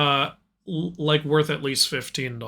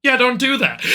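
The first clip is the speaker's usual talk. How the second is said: deadpan friend; 7 semitones higher, 3 dB louder than usual. Acted. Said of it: "it cuts the guy going".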